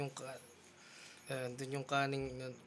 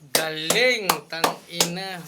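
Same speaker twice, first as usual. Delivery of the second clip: excited outburst; 8 dB louder, much slower than usual. Real, not acted. Hyped reaction to battle line.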